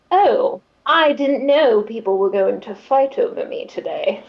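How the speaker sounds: lightly voiced amused villain, falling away at the end; a touch of teasing mock surprise; Nightshade. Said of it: "chuckles. He's like".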